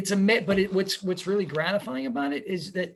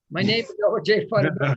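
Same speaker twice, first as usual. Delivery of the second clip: Elmer Fudd; 3 semitones higher, 5 dB louder than usual. Retold or imitated.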